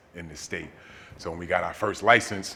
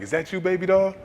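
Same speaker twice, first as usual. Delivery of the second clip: put-on a higher, lightly sweet old grandma voice; grandma greeting her grandson, higher and sweet; 12 semitones higher, 9 dB louder than usual. Grandma greets him, retold.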